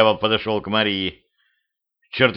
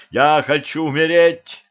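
high, loud anguished cry; loud, desperate outcry; despairing shout; 6 semitones higher, 4 dB louder than usual. A narrator's reading. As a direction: wail it out.

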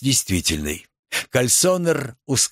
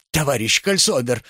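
plain reading voice

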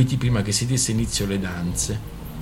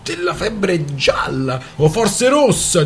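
higher, mocking storyteller's character voice; a lightly voiced scornful friend; bursting out mockingly; 5 semitones higher than usual. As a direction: scoff at the newcomer's toast with mock concern. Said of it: "sbottò Rana".

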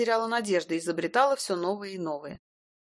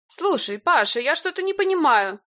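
high, loud irritated woman; 8 semitones higher, 6 dB louder than usual. A narrator's reading. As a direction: demand an explanation irritably. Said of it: "раздражённо говорила Илона". (раздражённо и громко)

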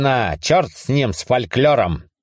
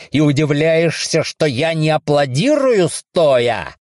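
sarcastic rant; 7 semitones higher, slower than usual. Acted. Ranting sarcastically.

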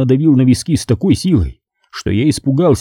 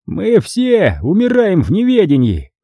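raised, slow, amused line; smiling cardinal; 8 semitones higher than usual. A narrator's reading. Cardinal smiles at the doomed prisoner, raised and amused. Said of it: "улыбнулся он".

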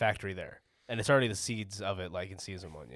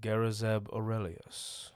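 Callus voice; slower than usual. Pretend. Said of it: "Can you do a Callus?".

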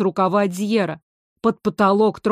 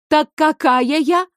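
higher, slow sarcastic lilt; sarcastic singsong; 6 semitones higher, 3 dB louder than usual. A narrator's reading. Water teasing Fire, sarcastic singsong. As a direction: sing the question mockingly. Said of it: "с сарказмом пропела вода".

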